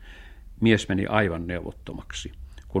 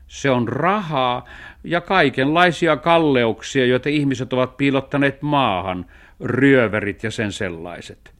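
explaining cat; 5 semitones higher, 6 dB louder than usual. Acted. Cat explains treasure to the dog, explaining.

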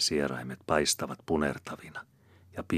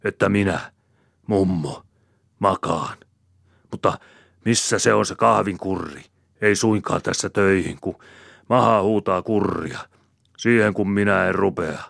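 loud, raised-pitch complaint; indignant husband's tirade; angry rant; 5 semitones higher, 9 dB louder than usual. A narrator's reading. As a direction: scold her at full volume. Man rants in acted quarrel.

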